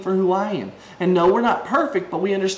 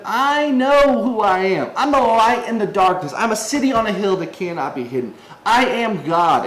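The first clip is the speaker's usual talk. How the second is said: voicing Jesus; 3 semitones higher than usual. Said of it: "Jesus is saying to them".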